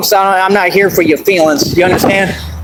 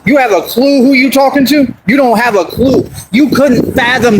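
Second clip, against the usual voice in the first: indignant raised voice; raised challenge; 3 semitones higher than usual. Real, not acted. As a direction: throw the question at them hard. Confronting a critic on livestream.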